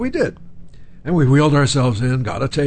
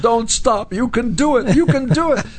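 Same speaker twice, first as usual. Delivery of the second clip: mock urging; 10 semitones higher, 3 dB louder than usual. Woman urging Brando to stand.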